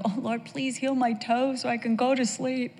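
high, soft plea to the Lord; pleading prayer. Acted. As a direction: act out a hushed bedtime prayer. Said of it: "don't you go".

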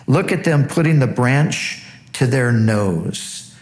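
preacher reading God's words aloud; scripture reading. Acted. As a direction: proclaim the passage to the congregation.

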